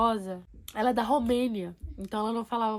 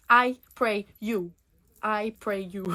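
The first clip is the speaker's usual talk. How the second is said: halting English; much slower than usual. Retold or imitated. Groping for English to offer prayer.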